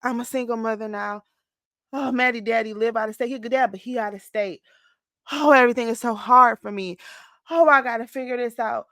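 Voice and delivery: a half-hammed woe is me voice; woe is me whining. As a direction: play your old self wallowing in self-pity. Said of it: "I would be like".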